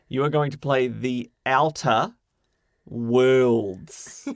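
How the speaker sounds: very slow, deliberate, word by word, "Worlds" drawn out. Giving a guess to the other speaker: very slow and deliberate. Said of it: "I'm going to say it very slowly and deliberately".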